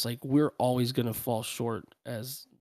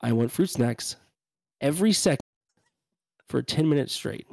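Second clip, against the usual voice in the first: put-on whiny child; 4 dB louder than usual. Foster daughter repeating her demand, mock whine building louder. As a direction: play the little girl nagging, building up. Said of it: "And she says".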